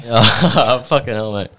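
amused disbelief, chuckling; laughing. Real, not acted. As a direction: laugh it out slowly. Laughing at drug confession.

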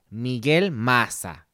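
"Maza" with the z said as s; slowly, "Maza" as "Masa"; Venezuelan pronunciation. Shown as a demonstration. Host shows how Venezuelans say his name. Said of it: "con Z".

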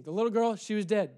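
ordinary talk

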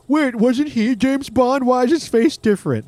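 high, slow puzzled viewer; confused moviegoer. Retold or imitated. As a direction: act out a baffled audience member. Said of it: "a James Bond situation".

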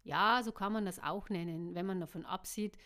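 steady audiobook reading with voiced characters; story narration. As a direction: read it like an audiobook. Audiobook reading before own chat.

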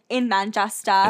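put-on Manchester pronunciation; name the town in a local accent. Imagining a Manchester alter ego.

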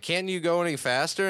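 high mock whine; whiny complaint. Krabs whines while fleeing.

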